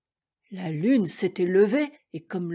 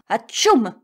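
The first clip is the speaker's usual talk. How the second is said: loud sneeze; 6 dB louder than usual. A narrator's reading. Lion sneezes.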